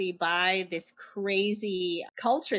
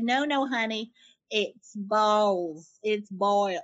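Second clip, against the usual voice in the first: put-on mild Southern accent; 3 dB louder, slower than usual. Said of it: "saying the same word in different accents".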